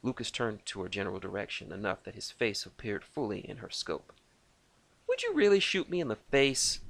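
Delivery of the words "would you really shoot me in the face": much higher, teasing disbelief; mock alarm; incredulous. A narrator's reading. Lucas teasing Reese over the threat, incredulous.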